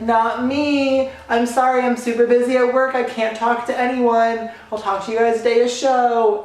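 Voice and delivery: exaggerated high-voiced excuse-making; mock innocent denial. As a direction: play innocent and brush them off, high-pitched. Acting out dodging the friends.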